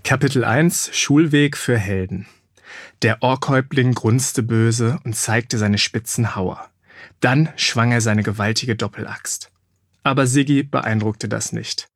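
lively audiobook reading; storyteller voice with acted character lines; story narration. A narrator's reading. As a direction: read the chapter to young listeners. Reads the book chapter aloud.

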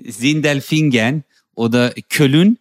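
Sindelfingen slow with ŋɡ, Köln as kølun; slow drawn-out Turkish-German town names; Turkish place-name pronunciation. Retold or imitated. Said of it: "so Städtenamen sagen".

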